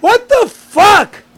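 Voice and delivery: slow angry yell. Real, not acted. Owner finds files disturbed.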